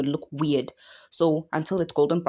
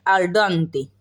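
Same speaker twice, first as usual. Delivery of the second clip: "Al dente" with a hammed-up Italian lilt, louder; mock Italian accent; 4 dB louder than usual. Shown as a demonstration. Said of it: "let me say it in an accent".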